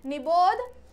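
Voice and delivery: mock angry order, pushed up; angry command. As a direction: scold her to get away. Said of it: "क्रोध के साथ में बोला हुआ है".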